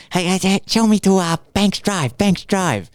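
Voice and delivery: put-on Asian accent, asking directions. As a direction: imitate an urgent tourist with an Asian accent. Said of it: "That was a really good accent".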